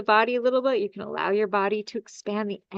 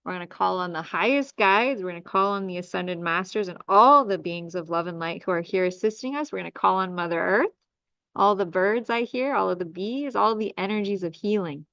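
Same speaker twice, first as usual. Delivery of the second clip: healing invocation. Acted.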